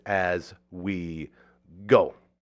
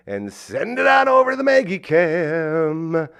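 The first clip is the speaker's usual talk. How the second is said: announcer voice; 9 semitones higher, 8 dB louder, slower than usual. Acted. Announcing the Maggie Cam.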